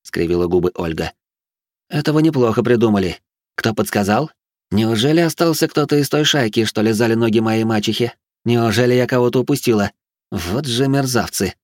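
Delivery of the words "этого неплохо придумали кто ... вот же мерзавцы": scornful mad noblewoman. Acted. Batori suspects a plot.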